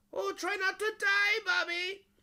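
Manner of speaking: very high, loud yelled voice. Recalling how a recorded line was reworked with Lauren, the speaker demonstrates it yelling. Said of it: "a little more like yelling".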